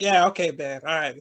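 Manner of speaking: low, offhand placating agreement. Acted. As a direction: humor him to get rid of him. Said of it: "agreeing with him to, like, to get him off".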